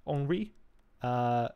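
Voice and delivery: slow, careful French accent. Shown as a demonstration. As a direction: say the name the French way. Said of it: "my terrible French accent".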